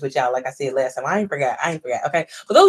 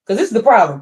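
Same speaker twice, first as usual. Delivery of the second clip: louder, calling to the back row; 3 semitones higher, 7 dB louder, faster than usual. Real, not acted. Host raising her voice to viewers in the back, loud. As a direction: project it to the people in the back. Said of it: "say it for the people in the back".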